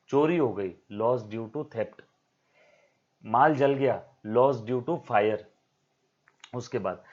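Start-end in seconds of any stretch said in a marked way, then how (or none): 0.9-2.0 slow dictation. Shown as a demonstration. Teacher dictates the term. 4.3-5.4 slow dictation. Shown as a demonstration. Teacher dictates the term.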